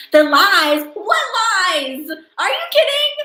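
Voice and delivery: loud, high incredulous protest; mock outrage. Real, not acted. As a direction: cry out in hammed-up disbelief. Mock outrage at being called liar.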